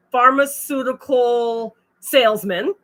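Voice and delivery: "pharmaceutical salesman" said slow and deliberate, read between the lines; knowing euphemism. Real, not acted. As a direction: stretch out "pharmaceutical" slowly as a coy cover word. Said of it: "That's what we're gonna call it".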